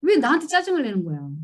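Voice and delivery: indignant question. Retold or imitated. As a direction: demand why, fed up. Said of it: "아니, 자기가 걷다가 너". (왜에 힘을 준, 억울하고 짜증 섞인 물음)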